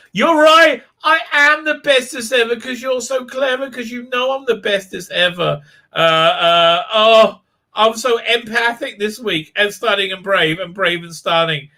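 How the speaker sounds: preen like a vain heroine; mock Burnham. Mocking Burnham praising herself, high smug voice.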